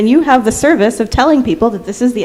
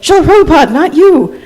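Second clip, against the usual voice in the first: retold protest; 6 semitones higher than usual. Retold protest at teacher in line.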